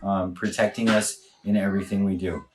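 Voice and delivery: earnest spoken prayer; closing prayer. Real, not acted. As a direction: pray to close the stream.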